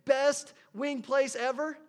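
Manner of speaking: slow and loud, spelling out the review; typing it out. Retold or imitated. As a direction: say each word slowly as you type. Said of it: "and you typed it in".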